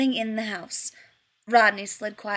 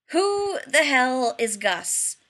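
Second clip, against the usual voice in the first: irritated; 3 semitones higher, 4 dB louder, much slower than usual. Acted. Tired, irritated Rodney demanding.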